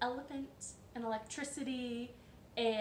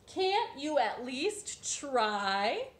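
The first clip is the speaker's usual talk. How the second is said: pleading hens; 4 semitones higher, 5 dB louder, much slower than usual. Acted. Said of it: "they all asked".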